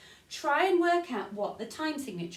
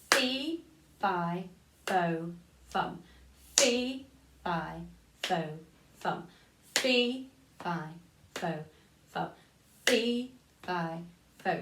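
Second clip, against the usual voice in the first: "fee" punched, "fi, fo, fum" lighter; stress on fee; 4 semitones lower than usual. Shown as a demonstration. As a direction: hit each "fee" harder. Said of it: "emphasis on the one".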